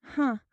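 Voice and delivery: a brief dismissive scoff; dismissive huh. Acted. Bride scoffs at her trapped sister-in-law, dismissive huh. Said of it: "merely a brief, dismissive".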